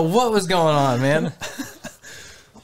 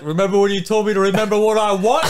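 mock drunk threat; 4 dB louder, faster than usual. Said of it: "He's gonna come back. He's like".

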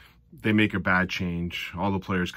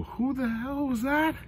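mock astonishment, pitched way up; disbelieving shout. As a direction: act floored by the move. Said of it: "there's a couple times where I go".

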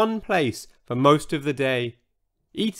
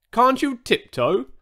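high, exasperated demand; 9 semitones higher than usual. A narrator's reading. Old Triceratops to noisy newcomer, demanding. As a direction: put it as a demand. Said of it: "demanded George".

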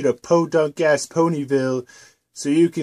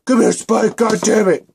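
higher, louder exasperated shout; loud yell; 5 semitones higher, 4 dB louder than usual. Acted. Twilight yelling for Spike to come, exasperated shout. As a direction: call him over, fed up.

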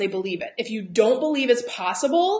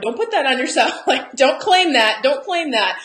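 Southern saying, emphatic; 4 semitones higher, 6 dB louder than usual. Retold or imitated. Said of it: "In the South we have the saying".

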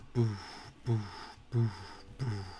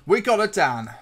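excited; 6 semitones higher, 9 dB louder than usual. Real, not acted. Excited about a new player.

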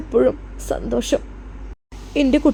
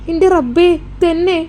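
shocked exclamation; 4 semitones higher than usual. Acted. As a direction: gasp it out in disbelief. Mother shocked by daughter's news.

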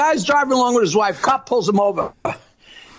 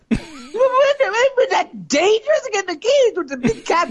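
much higher, fast fretting; worried squeak; 8 semitones higher than usual. Acted. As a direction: hurry the worry out up high. Friend worried about danger.

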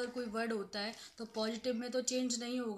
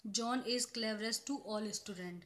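very slow, word by word dictation; slow example sentence; much slower than usual. Shown as a demonstration. Teacher reading an example sentence to students, very slow. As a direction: spell out the example slowly for the class. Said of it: "जहाँ पर John का comparison".

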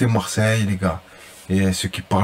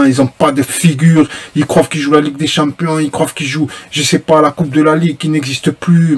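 louder and higher, venting at the players; indignant rant; 3 semitones higher, 6 dB louder than usual. Real, not acted. Marseille fan yelling in outrage at the players. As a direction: shout your outrage at the lazy team.

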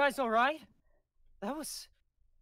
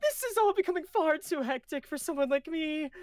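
put-on higher Galen voice, accent dropped; Galen without the accent; 9 semitones higher than usual. Rereading Galen's line to the crew, no accent. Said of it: "Why did I give him an accent?".

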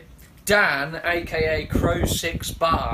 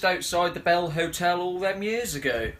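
laughing. Real, not acted. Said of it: "It's funny, it's funny".

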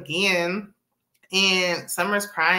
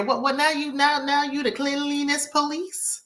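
mock indignation; 7 semitones higher than usual. Acts out scolding over sink.

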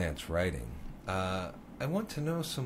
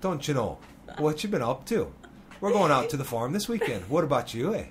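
hammed-up Minnesotan lilt, pitched up; northern Minnesota accent; 4 semitones higher than usual. Shown as a demonstration. Showing the guest how locals talk, playful Minnesota accent. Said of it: "how we talk in northern Minnesota".

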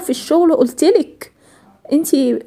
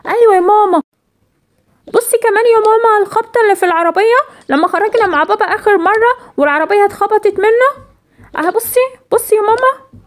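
put-on excited little girl; 5 semitones higher than usual. Daughter shows mother the car, excited. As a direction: point it out eagerly, proud to be right.

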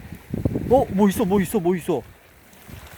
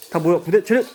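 drill sergeant; 4 dB louder than usual. Pretend. Mock military drill commands.

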